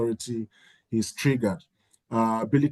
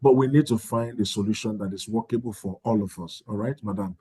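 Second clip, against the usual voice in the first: soft, measured reassurance; calm them down, ending lower and softer; gentle validating; 3 semitones lower, 3 dB quieter than usual. Shown as a demonstration. School head validating an upset parent's feelings, gentle. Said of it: "Just talk in that way".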